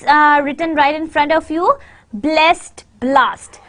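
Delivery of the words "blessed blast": "Blessed" with short e, then "blast" with open a; minimal pair. Shown as a demonstration. Teacher reads minimal pairs to learners, distinct vowels. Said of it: "some minimal pairs".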